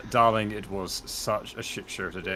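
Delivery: drawn-out rustic peasant voice, rising and laughing; rustic grumbling peasant. Acted. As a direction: play a weary country peasant home from work. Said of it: "my peasant voice".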